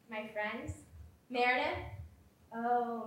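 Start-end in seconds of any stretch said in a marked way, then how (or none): none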